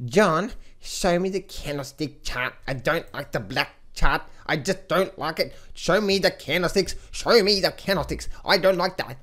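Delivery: lightly voiced demanding viewer; mock a picky viewer begging for candles; a hint of a spoiled whine; whiny viewer. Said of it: "some of you guys say".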